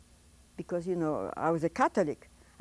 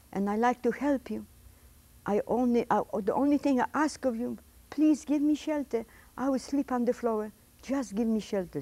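higher-pitched retold plea; retold begging; 3 semitones higher than usual. Refugee begging a stranger at the door for shelter, mildly pleading. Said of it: "I beg of you".

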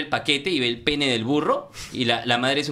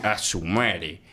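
put-on lower, very slow drunken mumble; drunk man; 8 semitones lower, 4 dB quieter, much slower than usual. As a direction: sound stunned and drunk. Drunk man sees dead donkey.

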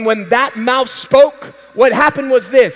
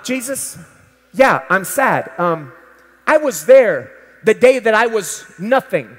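lightly voiced Peter, hushed and sad; 3 semitones lower than usual. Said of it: "imagine you're Peter".

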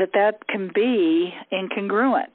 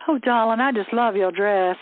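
mildly sugary, a bit higher gushing compliment; fake sweet; 3 semitones higher than usual. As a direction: lay on the fake sweetness lightly. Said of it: "sweet but covertly hostile".

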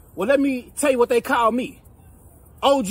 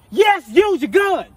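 sarcastic; 5 semitones higher, 5 dB louder, slower than usual. Acted. Sarcastic exasperation at friend.

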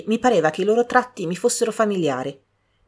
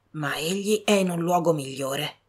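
softer, gentle comfort in grief; soft consolation; 4 dB quieter than usual. A narrator's reading. Old servant consoling the girls, soft and grieving. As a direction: comfort them quietly. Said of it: "continuò Anna".

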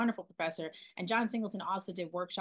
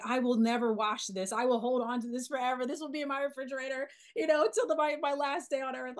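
thrilled; 5 semitones higher, 3 dB louder than usual. Retold or imitated. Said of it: "I was just so thrilled".

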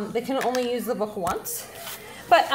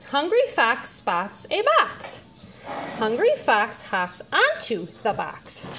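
slow, measured story reading; reading aloud to child; slower than usual. Shown as a demonstration. Parent reading a storybook with child, slow read-aloud. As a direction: read it out slowly, word by word. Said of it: "as you're reading, you would read".

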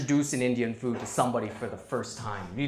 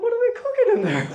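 mock passerby; faster than usual. Passerby's acted remark.

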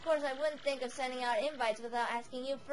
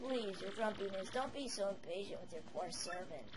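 softer raspy crone voice; raspy old hag; 6 semitones lower, 8 dB quieter than usual. Acted. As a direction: purr it like a scheming old witch. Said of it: "a bit of a raspy voice with the older characters".

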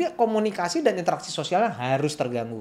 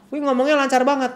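higher, louder mock-impressed exclamation; acted amazement; 9 semitones higher, 5 dB louder than usual. Observer reacting to a child who talks fluently, acted amazement.

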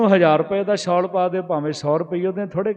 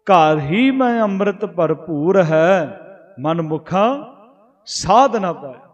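slow scripture recitation; slower than usual. Acted. Preacher reciting gurbani verse to the congregation, slow and reverent. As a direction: chant the verse slowly, each phrase drawn out.

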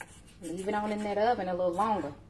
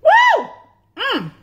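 excited whoop; 13 dB louder than usual. Real, not acted. First bite of steak.

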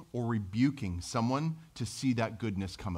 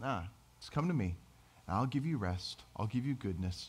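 hushed, kind invitation; soft and gentle; 6 dB quieter than usual. Retold or imitated. Preacher voicing God's gentle invitation, soft and quiet. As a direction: offer rest softly, like a gentle God.

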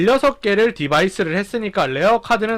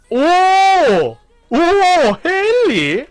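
excited shout; 9 semitones higher, 5 dB louder, much slower than usual. Real, not acted. Rare card appears.

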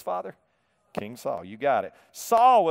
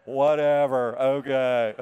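lower, drawn-out amused whatever; giving up, amused; 5 semitones lower, slower than usual. Real, not acted. Preacher giving up on hard names before his congregation, amused. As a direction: shrug off the hard names through held-in laughter. Laughing after stumbling over place names.

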